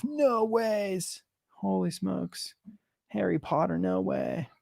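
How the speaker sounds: high-pitched mock amazement, drawn out; imitating excited kids. Parent echoing kids opening their Harry Potter Legos, excited high imitation. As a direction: mimic kids marvelling at a present. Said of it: "I hear a lot of".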